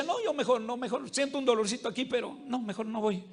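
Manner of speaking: timid excuse. Retold or imitated. Fearful patient avoiding the doctor.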